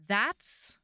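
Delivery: slow, laughing through the line; heroine's remark half laughed; laughing quote. Retold or imitated. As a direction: chuckle out the heroine's line slowly. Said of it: "So she's like".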